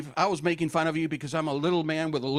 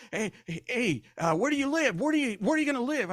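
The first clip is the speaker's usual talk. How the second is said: customs officer voice; 5 semitones higher, faster than usual. Retold or imitated. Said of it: "he says".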